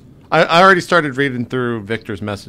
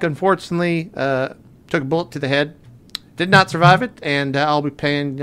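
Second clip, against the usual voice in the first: character voice; 3 semitones higher, 4 dB louder than usual. Acted. Recording a message as Higgins.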